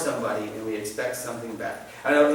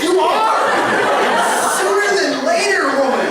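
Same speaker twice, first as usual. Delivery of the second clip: higher, louder teasing through laughter; laughing tease; 7 dB louder than usual. Retold or imitated. Great-grandson teases his old great-grandma, laughing.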